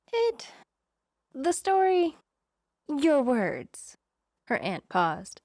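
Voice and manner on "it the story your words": much higher, pleading, halting; plaintive wail. Acted. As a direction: wail it out, desperate for an answer. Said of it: "Becca wailed".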